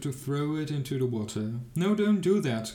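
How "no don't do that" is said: high, loud panicked plea; frightened cry. A narrator's reading. Saxon in the chest cries to Little Klaus, panicked high plea. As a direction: cry out in alarm from inside the chest. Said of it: "cried the Saxon in the chest".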